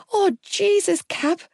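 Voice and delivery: high, near-tearful cry; almost weep the words. Acted. Gibbsy near tears at the roundabout, weeping. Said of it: "Gibbsy practically wept".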